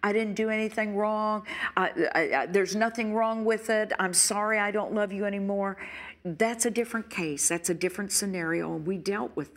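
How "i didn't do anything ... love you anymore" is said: lightly voiced cold partner; defiant spouse. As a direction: toss it off, unrepentant. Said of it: "someone that says".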